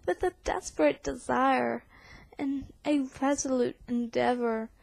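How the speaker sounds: put-on dramatic poem recital in an English accent; theatrical reading in a put-on English accent. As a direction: declaim the verse like an English actor. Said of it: "I totally didn't do that with an English accent".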